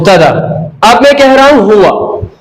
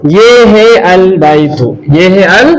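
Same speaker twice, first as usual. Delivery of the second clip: slow model reading; 3 semitones lower, slower than usual. Shown as a demonstration. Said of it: "ऐसे".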